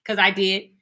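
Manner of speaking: imitating mom. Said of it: "She'd be like".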